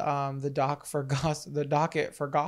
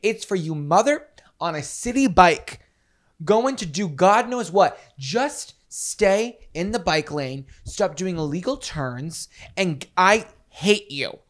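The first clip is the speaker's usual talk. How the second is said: heated rant; 7 dB louder than usual. Real, not acted. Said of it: "I'm very passionate about this".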